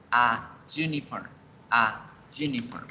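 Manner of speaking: "a, uniform" with a separate a, then juniform; article before consonant Y. Shown as a demonstration. Teacher drills learners, "a" then "uniform" with yuca Y. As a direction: pause after "a", firm Y on "uniform". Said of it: "debemos decir es a".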